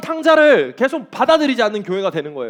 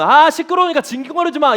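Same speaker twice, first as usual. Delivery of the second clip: higher-pitched, mildly exasperated telling-off; mock irritated scolding; 5 semitones higher, 4 dB louder than usual. Preacher mimics someone fed up with crying, mock irritation. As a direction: act out an impatient shushing of a whiner.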